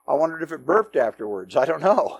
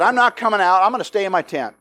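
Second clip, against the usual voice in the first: petulant; faster than usual. Acted. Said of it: "got really petulant and said".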